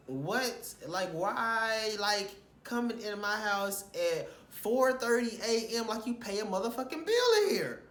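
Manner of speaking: incredulous retold confrontation; retold indignant outburst. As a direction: replay your disbelief at him, heated. Retold confronting late roommate.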